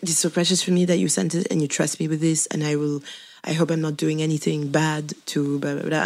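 put-on improvised French accent, quoting someone. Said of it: "doing a random French accent".

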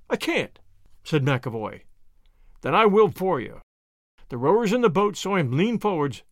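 put-on measured storyteller's reading of an old sea tale; story narration. A narrator's reading. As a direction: narrate it steadily, letting the drama carry. Reads Conan Doyle story aloud.

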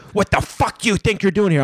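high, belligerent put-on voice; Sandman. Drunk wrestler who won't let the newcomer be, high belligerent rant. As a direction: push the pitch up and get in his face. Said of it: "this is me doing my Sandman".

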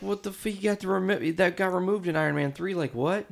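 high, stunned what-the-heck; can't believe what they're seeing; baffled disbelief. Retold or imitated. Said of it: "everyone's like".

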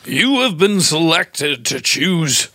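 slow formal talking letter; recorded letter voice. Acted. A voice box in a letter reads out a quest. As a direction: read it out slow like a tinny recording.

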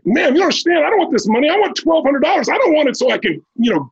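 high-pitched, urgent insistence; intense, dead serious. Retold or imitated. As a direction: retell a young man pleading his case in earnest. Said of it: "with that kind of intensity, you're dead serious".

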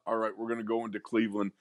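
hammed-up rah-rah cliché, fast; mock the old college-try speech; mock pep talk. Co-host mocking a rah-rah pregame speech, hammed-up. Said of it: "that's not the way that man operates".

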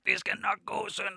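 high, halting fatherly reassurance; awkward dad comfort. Retold or imitated. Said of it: "har sådan sagt".

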